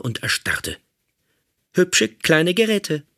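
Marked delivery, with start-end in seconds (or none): 1.7-3.0 slow, lightly raised robot voice, mocking; drawn out like a smug guard; robot captor. Robot examining the prisoner's devices, slow mocking voice. Robot inspects captured gear.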